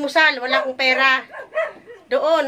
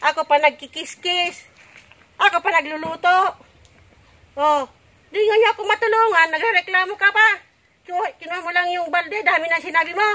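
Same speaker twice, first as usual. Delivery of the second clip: kvetching. Acted. Mother rants about complaining kids.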